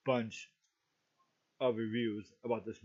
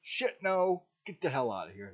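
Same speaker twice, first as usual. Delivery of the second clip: retold yell. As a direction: imitate your own yell in a theater, half-strength. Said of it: "you probably heard someone yell".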